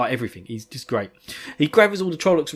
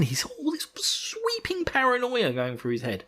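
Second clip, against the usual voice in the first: breathy hushed whisper; whispered paranoia; 10 semitones higher, 7 dB quieter than usual. Acted. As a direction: whisper it like a secret fear.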